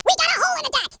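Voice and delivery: high-pitched damage report; urgent alarm. Acted. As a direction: yelp the bad news to the captain. Crew shouts damage reports in battle.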